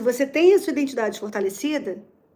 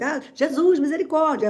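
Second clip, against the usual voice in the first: higher pitched, louder burst of Glória a Deus; nervous exclamation; 5 semitones higher, 3 dB louder than usual. Retold or imitated. Speaker's nervous outburst at work, raised pitch exclamation. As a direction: blurt it out when nervous. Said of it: "é o meu jeito de falar".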